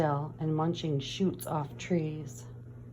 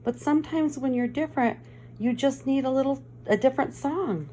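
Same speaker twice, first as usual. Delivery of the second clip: gentle cricket; 3 semitones higher than usual. Acted. Cricket encouraging sad Gerald, gently. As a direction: coax him like a wise small friend.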